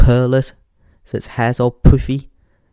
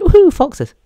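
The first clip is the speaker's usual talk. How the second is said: very high, loud mock cheer; re-enacted thrilled squeal; excited whoop; 8 dB louder than usual. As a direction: whoop it with childlike glee. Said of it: "I was excited about the foxes".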